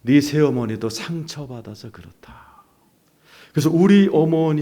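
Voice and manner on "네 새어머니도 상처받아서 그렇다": slow, measured explanation; lightly imitated divine voice; voice of God. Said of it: "하나님이 음성을".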